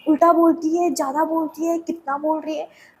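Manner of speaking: loud, high imitation of the teacher snapping back; loud retold reprimand from the teacher; mock scolding teacher. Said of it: "teacher was like".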